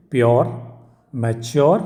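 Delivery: प्योर, मैच्योर with a clear "yaw" glide; stressed "yor" in प्योर, मैच्योर; pronunciation model. Shown as a demonstration. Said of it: "उसको sound होता है".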